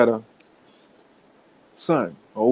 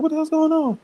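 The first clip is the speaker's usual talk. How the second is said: much higher, indignant yell; mock yell. Sister shouting at the knocker, high mock yell. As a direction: holler down from the doorway. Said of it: "the sister come out like".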